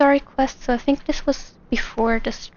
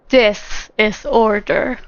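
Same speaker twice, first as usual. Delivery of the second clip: slow, lightly put-on man's voice; a slow attempt at a male game character; Song Lee; 2 semitones lower, slower than usual. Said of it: "You want me to do Song Lee?".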